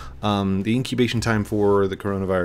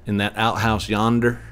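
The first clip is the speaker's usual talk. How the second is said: hillbilly talk. Shown as a demonstration. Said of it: "I was raised hillbilly".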